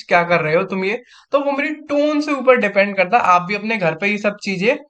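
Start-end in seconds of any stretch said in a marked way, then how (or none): 0.0-1.0 affectionate demo. Shown as a demonstration. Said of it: "किसी से प्यार से बोलूंगा तो वही चीज".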